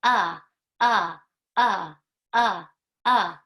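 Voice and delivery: loud clipped short vowel grunts; alien talk. Pretend. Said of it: "Do that with me".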